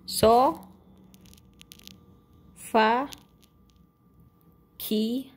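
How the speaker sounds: slow, with long gaps between So, Fa and Ki; syllable by syllable. Real, not acted. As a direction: say So, then Fa, then Ki, each separately. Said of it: "say it fast".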